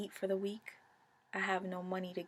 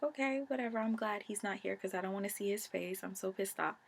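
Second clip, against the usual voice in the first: annoyed dismissal; 3 dB quieter than usual. Retold or imitated. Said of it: "And I'm like".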